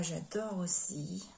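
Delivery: breathy whisper of delight. Real, not acted. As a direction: breathe it out, charmed. Whispered delight over stamps. (murmure ravi)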